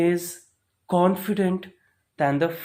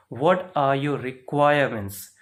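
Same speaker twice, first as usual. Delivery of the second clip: "requirements" given extra emphasis; stress on REQUIREMENTS; 3 dB louder than usual. Shown as a demonstration. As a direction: lean on the word "requirements". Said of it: "I am putting stress on the word requirements".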